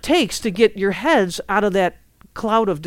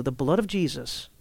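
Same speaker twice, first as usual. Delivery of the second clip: quiet prayer demo; 4 semitones lower, 9 dB quieter than usual. Shown as a demonstration. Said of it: "this is what I do".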